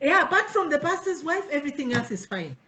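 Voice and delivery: amused, laughing retelling; laughing repeat. Real, not acted. Host repeating the complaint with a laugh. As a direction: laugh through the punchline. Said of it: "repeating with laughter".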